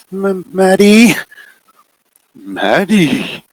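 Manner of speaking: high, stammering small voice; a frightened child stuttering her name; scared little girl. Acted. Little girl stammering her name to the figure, scared.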